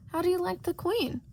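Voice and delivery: high, sly cat voice; Cheshire Cat voice. Acted. The floating cat teasing Shota, high and sly. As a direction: tease like a grinning cat.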